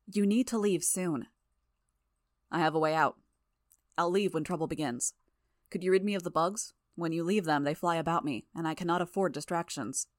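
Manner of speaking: measured, slightly firmer character voice; lightly voiced grave ally. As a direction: lightly voice a formal, urgent ally. Voices the underground ally in dialogue.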